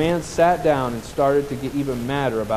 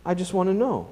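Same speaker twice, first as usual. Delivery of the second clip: a hint of a small boy pleading. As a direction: beg the father gently. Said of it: "pleaded the little boy".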